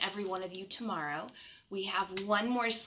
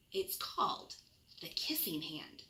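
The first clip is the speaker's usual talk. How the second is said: soft whisper, lower and hushed; secret whisper; 4 semitones lower, 6 dB quieter than usual. Acted. Mother reveals secret.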